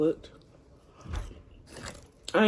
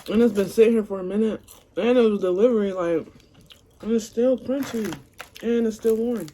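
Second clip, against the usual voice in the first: higher, louder food praise; excited; 5 semitones higher, 5 dB louder than usual. Real, not acted. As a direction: rave about the food.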